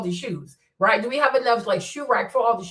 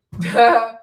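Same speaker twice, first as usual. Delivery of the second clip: a short real burst of laughter; amused laugh; 7 dB louder than usual. Real, not acted. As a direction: laugh at the absurd claim.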